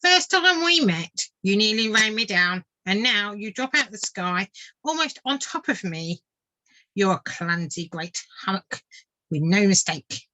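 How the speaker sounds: grumbling water vole. Acted. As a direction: tell off a clumsy friend. Vole scolds the swift.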